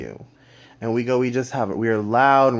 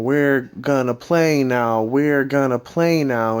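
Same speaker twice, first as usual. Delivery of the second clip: slow, louder, drawn-out menacing chant; shaking madman; 3 semitones higher, 5 dB louder, slower than usual. Acted. Masked intruder jumping on a sleeper, crazed slow chant. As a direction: stretch each word out like a crazed attacker. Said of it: "he's shaking, he's going".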